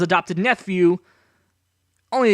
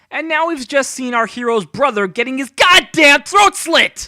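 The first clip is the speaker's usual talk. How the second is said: outraged; 7 semitones higher, 6 dB louder than usual. Real, not acted. Outraged at violent PG film.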